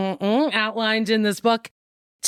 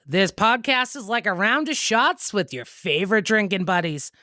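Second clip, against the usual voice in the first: punchy podcast intro read; announcer voice; 2 semitones higher than usual. Acted. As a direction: sell the intro like an ad. Recorded show intro.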